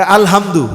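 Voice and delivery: "আলহামদু" with the throaty Arabic ha; correct pronunciation. Shown as a demonstration. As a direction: model the correct "আলহামদু" carefully. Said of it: "হুজুর কি বলে?". (সহিহ উচ্চারণে "আলহামদু")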